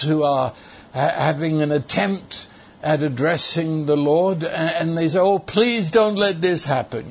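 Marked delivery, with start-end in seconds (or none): 5.2-7.1 imitated feeble, wishful plea; mock a hesitant believer pleading weakly; gently imitated helpless begging; hopeful pleading. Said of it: "not saying let in a sort of a hope".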